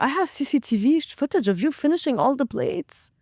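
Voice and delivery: lightly acted, swooping sing-song comeback; exaggerated ups and downs, retold retort; mock-incredulous retort. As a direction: throw the proof back at them, incredulous. Retorts to lying customers in story.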